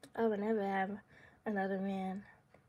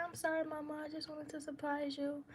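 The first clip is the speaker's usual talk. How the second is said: high, soft imitated apology; mock apologetic partner; 4 semitones higher, 7 dB quieter than usual. Partner apologising for the surprise, softly placating. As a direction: lightly voice a sheepish, placating partner.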